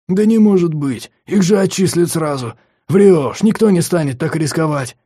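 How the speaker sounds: put-on a younger boy gasping at gossip; disbelieving student. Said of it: "смешки и заговорщический шёпот". (взволнованный недоверчивый шёпот)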